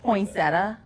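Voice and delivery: "Poinsettia" without the final I, like "poinsetta"; questioned pronunciation. Shown as a demonstration. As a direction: ask "Poinsettia?" as "poin-SET-uh", rising. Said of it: "There's an I at the end".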